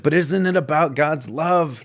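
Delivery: earnest question. Retold or imitated. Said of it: "and I was like".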